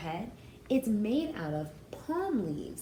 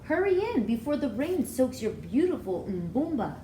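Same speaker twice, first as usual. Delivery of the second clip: put-on a touch louder grandmother voice, urging the girl inside; grandmother calling; 5 semitones higher, 5 dB louder than usual. Grandmother hurries Aissatou in from the rain, a touch louder. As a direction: hurry her in out of the rain, kindly.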